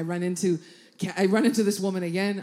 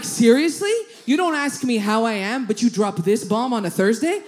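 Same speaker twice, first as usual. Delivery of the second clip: loud, put-upon complaint; exasperated retold retort; mock indignation; 6 dB louder than usual. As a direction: protest in comic disbelief, louder. Retold indignant reply to acquaintance.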